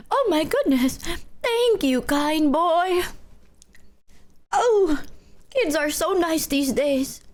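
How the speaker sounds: slow, sweet old-lady impression; hammed-up elderly woman voice. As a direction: play a grateful old dear, drawn out. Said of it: "I sound like an old woman that's like".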